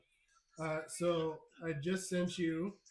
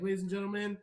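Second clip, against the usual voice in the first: champion introduction, building higher and stretching the name; ring announcer; 4 semitones higher than usual. Acted. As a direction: announce the champ, drawing out the last words. Host introduces the champion to crowd.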